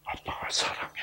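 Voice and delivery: very soft, near-whispered reassurance; hushed, loving murmur; tender father. Retold or imitated. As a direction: say it low and breath-soft to your daughter. Father tenderly reassures his daughter.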